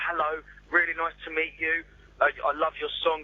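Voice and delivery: imitating careful speech to a foreigner; lightly slowed, spaced-out polite phrases; slow talk for foreigners. Singer greeting a supposedly foreign performer, slow and careful. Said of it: "tend to speak slow".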